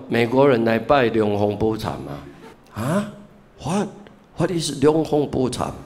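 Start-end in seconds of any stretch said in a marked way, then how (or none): 2.7-5.7 put-on 龙峰普禅 said haltingly with an American English accent, higher; puzzled American asking what is 龙峰普禅. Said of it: "叫美国人来拜龙峰普禅". (用美国口音困惑地问龙峰普禅)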